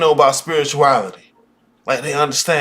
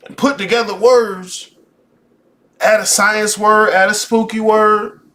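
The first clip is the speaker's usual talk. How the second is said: slow mocking list; 5 semitones higher, 3 dB louder, slower than usual. Mocking buzzwords, slowed.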